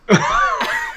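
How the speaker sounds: a sudden, very high, shouted laugh; loud burst of laughter. Real, not acted. Telling a joke on stream, bursts out laughing at the punchline. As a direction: break into a big howling laugh at the punchline.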